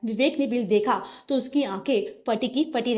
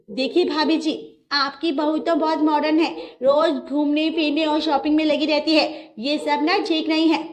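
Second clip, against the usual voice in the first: raised, higher complaining neighbour voice; gossipy neighbour; 5 semitones higher, 5 dB louder than usual. Acted. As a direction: lean in like a nosy neighbour with a grievance.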